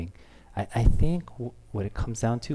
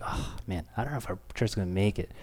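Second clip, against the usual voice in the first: much softer, whispered, quick despair; 5 semitones lower, 9 dB quieter, faster than usual. Retold or imitated. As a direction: breathe out the doubt in a hush. Pastor's despairing inner voice.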